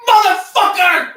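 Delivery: high yelled curse of pain. Real, not acted. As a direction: scream the curse as it rips. Strip ripped off.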